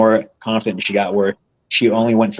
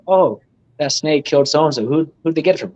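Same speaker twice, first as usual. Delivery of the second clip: higher, nosy bystander voice; nosy gossiper; 5 semitones higher than usual. Retold or imitated. Gossip about who sold the deadly snake, raised nosy voice. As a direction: ask it like a prying onlooker.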